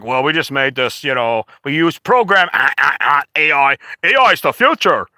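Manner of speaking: lightly voiced dopey AI enthusiast; mocked ad makers. Ad makers excusing themselves, mock clueless enthusiasm. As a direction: stammer into a mock-excited boast. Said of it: "They're like".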